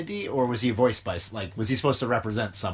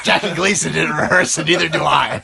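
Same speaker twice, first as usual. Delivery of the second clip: mock boast; 5 semitones higher, 9 dB louder than usual.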